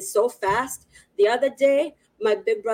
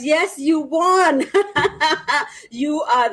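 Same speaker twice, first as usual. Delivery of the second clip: excited; 6 semitones higher, 4 dB louder, slower than usual. Real, not acted. Congratulating a viewer.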